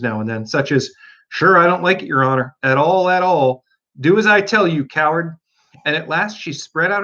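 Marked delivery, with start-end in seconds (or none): 1.3-3.6 put-on Irish accent. Pat refusing. 4.0-5.4 scolding order. Acted. Rabbit orders Pat.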